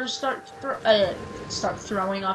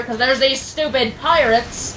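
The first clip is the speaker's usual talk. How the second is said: slow, louder Southern drawl of annoyance; angry southern accent; 3 semitones higher, 6 dB louder, slower than usual. Real, not acted. Gamer cursing the space pirates, Southern accent. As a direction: let the Southern accent slip out in irritation. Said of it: "I sometimes go into a southern accent when I get angry".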